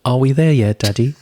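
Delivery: lightly voiced little child; sweetened kid impression; imitating young daughter. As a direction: show how a small child asks, pitched a bit up. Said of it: "She says".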